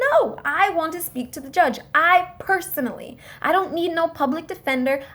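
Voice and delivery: mildly indignant, acted-out insistence; insistent demand. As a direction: press the demand firmly. Retelling her demand for the judge.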